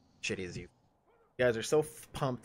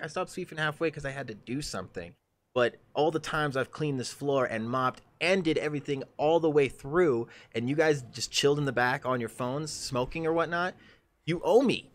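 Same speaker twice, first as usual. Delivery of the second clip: heated retort; 5 semitones higher than usual. Retold or imitated. Arguing with a lazy coworker, heated and rising. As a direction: build the grievance until you snap. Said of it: "I'm like".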